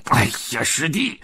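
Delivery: high yowling cries of pain; yelping in pain. Acted. Pigsy yanked up by his ear, high pained yelps. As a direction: squeal as your ear is yanked. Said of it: "他大声地叫唤着".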